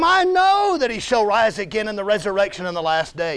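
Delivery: insistent, exasperated recital of what she already knows; mildly heated, impatient reply; impatient retort. Acted. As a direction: throw the known answer back at him. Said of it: "You really think she said it like that?".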